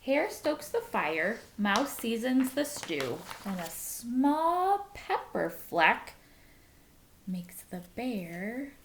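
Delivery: lively storybook reading voice; reading to children. A narrator's reading. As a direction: read it to a class of kids. Reads picture book aloud.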